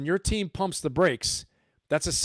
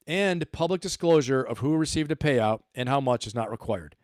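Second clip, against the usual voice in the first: a slower, deliberate reread; read slowly. Shown as a demonstration. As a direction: spell it out slowly for the viewers. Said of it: "I'm gonna read it again slowly to you".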